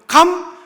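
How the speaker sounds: a loud, high 감 that breaks off; choked-off first syllable. Retold or imitated. Father trying to thank God, voice catching.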